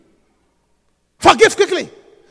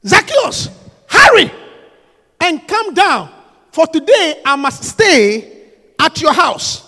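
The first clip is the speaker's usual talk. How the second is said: Jesus calling; slower than usual. Acted. Jesus calls Zacchaeus down from the tree. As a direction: call up to him in the tree.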